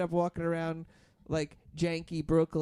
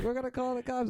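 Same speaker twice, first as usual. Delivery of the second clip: threatening neighbor; 8 semitones higher, faster than usual. Retold or imitated.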